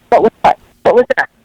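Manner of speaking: retold examiner brushing it off with a sharp, feigned puzzlement; mock innocent denial. Polygraph examiner dismissing the complaint with mock innocence. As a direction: toss it back like you have no idea what they mean.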